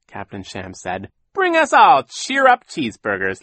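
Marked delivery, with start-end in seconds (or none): 1.3-3.4 high, loud call to the waiter; hearty ordering. A narrator's reading. Villain orders for the table.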